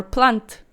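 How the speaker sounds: "plant" as one Afrikaans syllable, no final schwa. Shown as a demonstration. Vlogger giving the singular, Afrikaans pronunciation. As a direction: say "plant" as a short plunt. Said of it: "plant, singular".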